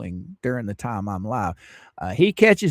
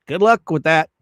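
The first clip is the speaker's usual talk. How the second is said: louder sarcastic send-off; mock sarcasm; 5 dB louder than usual. Real, not acted. Streamer scoffs at her injunction plan, sarcastic. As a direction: toss it off with scorn. Mocking a chat story.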